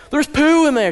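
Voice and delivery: high, loud disgusted outburst; shocked teen shouting his disgust; appalled yell. Retold or imitated. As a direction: yelp it out in horror. Son appalled by bowl.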